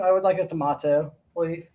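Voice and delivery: polite mock-British request; British accent. Co-host playing an English customer, British accent. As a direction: order it in a put-on English accent. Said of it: "if there's anybody British watching this".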